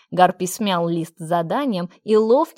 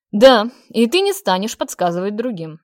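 stern demand; 7 dB louder than usual. A narrator's reading. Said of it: "строго и уверенно потребовал Ран".

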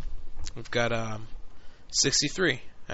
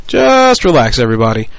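loud and higher pitched relax; 4 dB louder than usual. Real, not acted. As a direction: shout Just relax up high.

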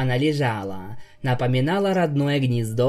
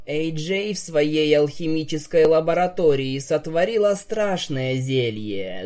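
sepulchral voice; 3 semitones higher than usual. Acted. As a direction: intone it like a ghost story. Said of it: "за могильным голосом произнесла".

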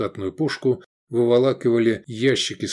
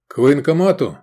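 raised, urgent ask; urgent question; 4 semitones higher, 6 dB louder than usual. A narrator's reading. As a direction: call it out over the noise. Asking recruits in battle.

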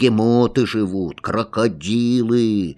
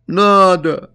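a higher, louder tearful burst; through tears; 8 semitones higher, 6 dB louder than usual. A narrator's reading. Boy answers his father through tears, a higher and louder burst. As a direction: blurt it out crying. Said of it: "сказал я сквозь слёзы".

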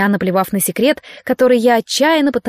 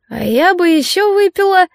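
tipsy hiccup; 8 semitones higher than usual. A narrator's reading. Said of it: "икнула Вероника".

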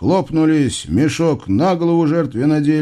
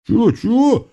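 испуганное чё; 11 semitones higher than usual. Acted. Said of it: "испуганно переглянулись разбойники".

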